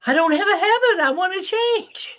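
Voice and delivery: imitating an indignant grown son; cranky son. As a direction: protest like a stubborn son. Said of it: "He said".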